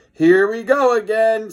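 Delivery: loud, high panicked cry; scream. A narrator's reading. George screams as the finger snaps, loud. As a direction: yell it like doom is coming. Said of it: "screamed George".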